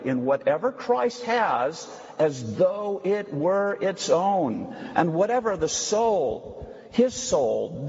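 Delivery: put-on measured, declamatory reading of old theology; emphatic reading aloud. Preacher reading Luther aloud to the class, emphatic. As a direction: read it out with weighty stress on key words.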